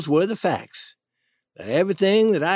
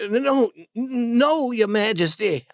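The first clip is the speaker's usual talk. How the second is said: stammering, slightly higher plea; a touch of scared stammer; mildly frightened; 4 semitones higher than usual. Acted. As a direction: stumble over a nervous denial. Frightened boy answers a threatening king.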